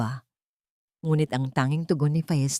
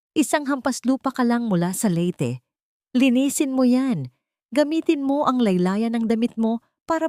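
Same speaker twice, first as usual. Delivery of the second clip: harsh scolding; 3 semitones higher than usual. Acted. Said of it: "bulyaw ni Remedios".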